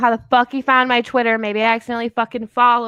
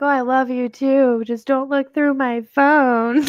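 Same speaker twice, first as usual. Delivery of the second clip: laughing sweet-talk; 4 semitones higher, slower than usual. Retold or imitated. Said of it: "And I'd be like".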